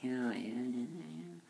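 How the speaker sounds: hammed-up hollow agreement; fake cheery yes-man. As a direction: play someone putting on a false front. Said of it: "a false face of".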